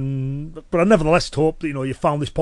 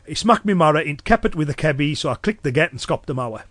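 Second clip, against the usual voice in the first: broad Cumbrian dialect. Shown as a demonstration. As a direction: run through it in thick Cumbrian. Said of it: "I dropped into my normal speech".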